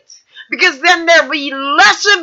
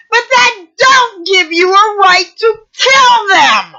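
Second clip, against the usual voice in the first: angry; 4 semitones higher than usual. Real, not acted. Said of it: "really pissed".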